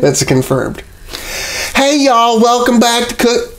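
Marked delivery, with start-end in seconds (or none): 1.7-3.5 bright, high YouTube host greeting; cheery cooking show opener; host intro voice. Acted.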